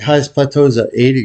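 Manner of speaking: normal talking voice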